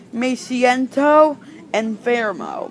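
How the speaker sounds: slow demo. Shown as a demonstration. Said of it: "they might answer saying".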